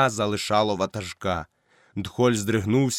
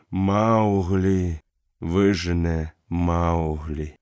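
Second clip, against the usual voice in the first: lightly voiced old wolf answering slowly; calm dying wolf; 5 semitones lower, much slower than usual. Akela answers calmly.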